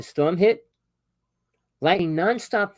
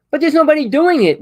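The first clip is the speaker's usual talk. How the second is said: loud lament; 12 semitones higher, 10 dB louder than usual. Real, not acted. Laments nobody doing better.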